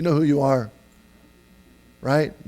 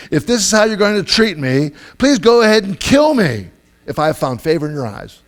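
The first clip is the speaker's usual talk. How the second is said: high, loud melodramatic plea; acted exasperation, laid on thick; smart-aleck Moses; 5 semitones higher, 4 dB louder than usual. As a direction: throw a sarcastic ultimatum at God. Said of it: "He's just being a real smart aleck".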